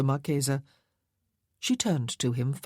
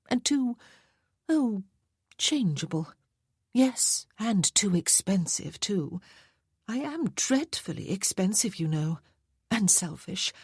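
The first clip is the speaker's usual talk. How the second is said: higher, coquettish lady's voice; a vain society lady teasing about her wealth; playful marchesa; 5 semitones higher than usual. Acted. Jeanne teasing the colonel about her wealth, in a higher playful lady's voice.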